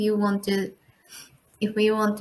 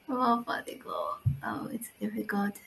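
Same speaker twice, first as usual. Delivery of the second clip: very soft, half-whispered thinking aloud; hushed, hesitant whisper; whispered musing; 12 dB quieter than usual. Real, not acted. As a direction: murmur it to yourself, stumped by the question. Student muses over a hard question.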